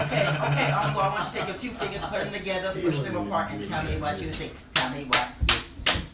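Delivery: lightly voiced bossy girl, loud; sassy niece. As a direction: boss him around sassily. Sassy niece instructing uncle.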